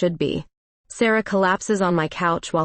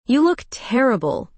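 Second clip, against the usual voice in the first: higher, cheerful teasing; cheerfully; 6 semitones higher than usual. Acted. Tipsy Sarah greets gloomy Clara cheerfully. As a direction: chirp the insult like good news. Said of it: "she says cheerfully".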